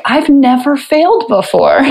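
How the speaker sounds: replaying her tearful moment, half-mocking it; retold tearful cry. She tells her husband through tears she is a failure.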